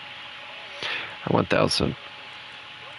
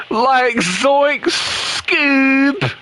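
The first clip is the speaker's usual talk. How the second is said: very slow, higher stoner-drawled hippie voice; Shaggy; 7 semitones higher, much slower than usual. Shown as a demonstration. Gamer testing his cartoon stoner voice, very slow and higher. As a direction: stretch it out like a dazed hippie. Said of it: "Sounds like he's smoking crack or something".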